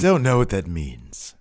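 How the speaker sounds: a hint of a put-on British voice; lightly voiced Regal. Cohost echoing Regal's confusion in a lightly put-on voice. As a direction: echo Regal's puzzlement in character.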